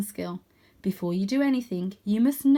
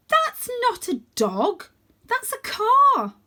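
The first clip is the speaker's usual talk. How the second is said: slow, high, louder matter-of-fact; Holly correcting; 13 semitones higher, 6 dB louder, slower than usual. A narrator's reading. Holly explaining cars to Varjak, slow and high. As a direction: spell it out to a fool.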